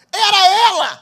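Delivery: loud, high laughing outburst at the reveal; laughing shout. Real, not acted. Pastor to the congregation, laughing shout at the reveal.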